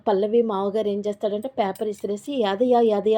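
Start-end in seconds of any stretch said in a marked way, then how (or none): 2.4-3.2 calling the servant loudly across the house; louder retold call for Yadayya. Father-in-law calls the servant for his tea, loud call. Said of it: "అని గట్టిగా పిలుస్తాడు".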